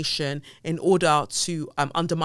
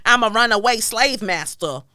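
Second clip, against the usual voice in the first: mock quote; 6 semitones higher, 6 dB louder than usual. Mocking quote attributed.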